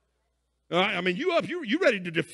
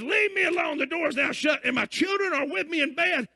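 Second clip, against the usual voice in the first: annoyed yelling; 6 semitones higher than usual. Retold or imitated. Sleeper refusing the knocking neighbour from bed, fed-up yelling. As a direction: keep shouting him away from the door. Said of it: "He says".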